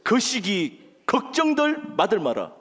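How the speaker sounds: slow, drawn-out Jeolla accent; stretched Jeolla delivery; Jeolla dialect. Shown as a demonstration. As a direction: offer folksy Jeolla reassurance with deliberate pauses. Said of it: "전라도?".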